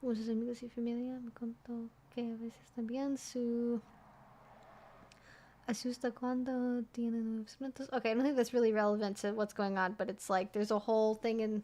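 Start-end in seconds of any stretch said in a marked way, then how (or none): 0.0-7.9 slow, hushed whisper. Reading a Spanish post aloud into the microphone: whispering. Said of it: "I realize I'm whispering Spanish into the fucking microphone".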